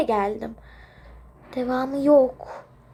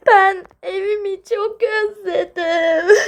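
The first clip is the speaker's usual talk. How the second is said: tearful; 2 semitones higher than usual. Acted. A crying child telling a friend she misses home, sobbing. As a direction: sob out the homesickness.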